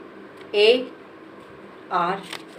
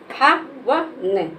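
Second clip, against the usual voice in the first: drawn-out word; much slower than usual. Shown as a demonstration. Teacher modelling हवन slowly for a child. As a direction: stretch the word out gently. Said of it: "हवन में ना को धीरे से बोलते हैं".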